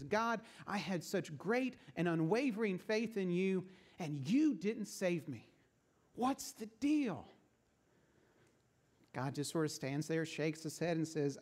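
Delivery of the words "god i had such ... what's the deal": mildly indignant, with a higher, slowed-down final question; a touch of wounded outrage. Acted. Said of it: "so indignant and says".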